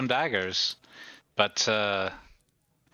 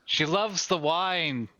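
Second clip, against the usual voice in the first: slow, slightly raised in-character line; in-character aside; 4 semitones higher, much slower than usual. Acted. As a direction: draw it out a little, pitched up. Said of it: "and I look over and say".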